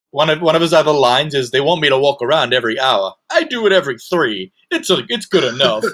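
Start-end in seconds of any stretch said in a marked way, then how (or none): 1.5-5.8 mock boastful tone, fully self-satisfied and puffed-up. Quoting the guard bragging about skipping rounds: proud Lorenzo impression. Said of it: "so proud of how hard he is not doing his work".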